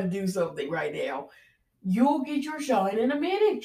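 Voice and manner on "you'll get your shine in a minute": yelling. Real, not acted. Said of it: "You got me yelling on the podcast".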